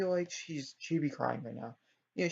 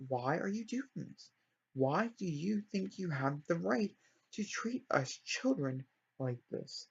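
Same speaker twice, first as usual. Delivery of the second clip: mildly indignant, drawn-out questioning; understated acted outrage; a bit appalled; slower than usual. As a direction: act out slow, affronted disbelief. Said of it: "just a tiny bit appalled".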